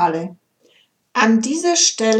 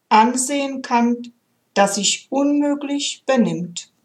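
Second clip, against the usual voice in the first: measured storytelling read with gentle pauses; heartfelt recital of a story poem. A narrator's reading. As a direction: read it like a tender fable. Reads a poem aloud.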